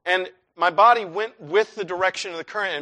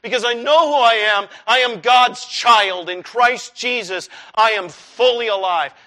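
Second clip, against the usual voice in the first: firm, emphatic confession of faith; bold declaration; 5 dB louder than usual. Acted. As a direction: declare it with conviction, word by word. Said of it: "There is a healthy way of saying".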